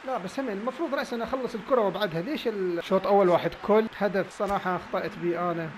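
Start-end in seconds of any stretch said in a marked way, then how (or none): none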